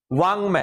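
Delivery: वांग said with a nasal ng; sound it out. Shown as a demonstration. Teacher showing students the nasal sound. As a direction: let वांग ring with the nasal. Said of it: "अब समझ लो क्या उच्चारण निकल रहा है".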